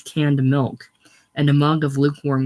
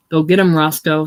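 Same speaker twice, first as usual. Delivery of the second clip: jeering call out; 6 dB louder than usual. Acted. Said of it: "somebody called".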